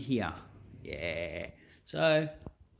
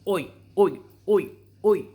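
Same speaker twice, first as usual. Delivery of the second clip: loud, high oi calls; loud high hailing cry; shouted greeting; 7 semitones higher, 8 dB louder than usual. Acted. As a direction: shout the oi to grab the viewers. Greeting call to viewers.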